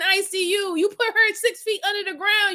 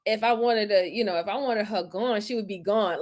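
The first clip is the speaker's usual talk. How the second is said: mock flexing quote; 8 semitones lower, 4 dB quieter than usual. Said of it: "flexing about".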